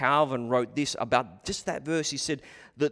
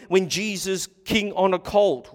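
ordinary talk, nothing marked

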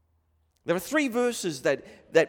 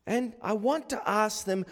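normal talking voice

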